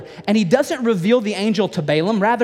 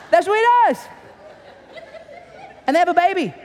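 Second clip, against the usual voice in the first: emphatic high preaching; 10 semitones higher, faster than usual. Real, not acted.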